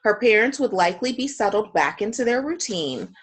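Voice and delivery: measured read-aloud with emphatic key words; story narration. A narrator's reading. Teacher reading Lynn's dilemma to the class, measured story narration. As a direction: read the case out with deliberate phrasing.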